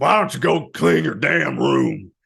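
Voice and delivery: loud rough high bark. Asked to insult the other speaker in the Satan voice, doing the Satan voice. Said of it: "insult me in the Satan voice".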